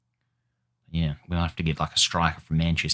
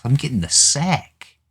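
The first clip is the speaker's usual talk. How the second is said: high and louder despairing wail; panicked; 9 semitones higher, 5 dB louder than usual. Real, not acted. Manager fearing dismissal, high and louder panic. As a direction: cry it out like you're doomed.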